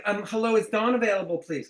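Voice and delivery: hesitant, mousy cold caller; timid caller. Shown as a demonstration. Coach imitating a timid cold caller asking for Dawn, hesitant. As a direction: shrink into a nervous ask. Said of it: "you're not like".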